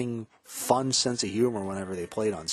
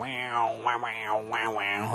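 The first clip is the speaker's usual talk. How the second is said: imitated guitar wow; much slower than usual. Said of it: "whammy bar and go".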